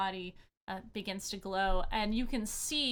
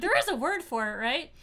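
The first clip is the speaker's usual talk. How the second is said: mock frustrated; 6 semitones higher, 7 dB louder, faster than usual. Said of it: "I was like".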